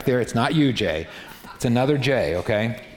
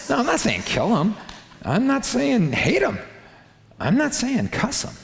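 emphatic, building denial; 14 semitones higher, 3 dB louder than usual. Real, not acted. Rising emphatic list of denials.

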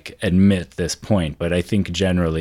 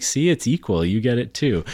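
higher-pitched mock fairness; lightly sassy, pitched up as if placating; 5 semitones higher than usual. Acting out someone putting a dollar in the other pocket, sassy. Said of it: "kind of almost like a sassy thing".

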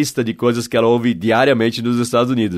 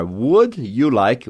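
slow demo; much slower than usual. Shown as a demonstration. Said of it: "a garçonete vai perguntar".

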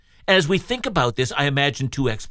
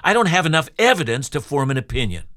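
bewildered shrug; 3 dB louder, faster than usual. Retold or imitated. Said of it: "it's a reaction that says".

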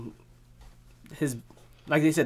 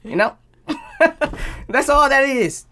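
sports agent voice; 2 semitones higher than usual. Pretend. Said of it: "We didn't say ad lib".

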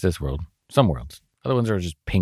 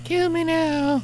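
high squeaky mock scream; squeaky portal voice; much slower than usual. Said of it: "It's like screaming".

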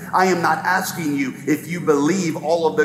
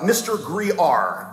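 telemarketer; 2 semitones higher, much slower than usual. Retold or imitated. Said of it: "this is a telemarketer who doesn't know me".

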